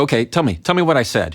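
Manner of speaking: challenging. Retold or imitated. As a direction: dare them to repeat it. Challenging in an argument.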